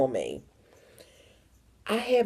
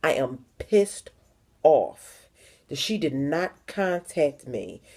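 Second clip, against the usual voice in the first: retold angry message; slower than usual. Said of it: "I said".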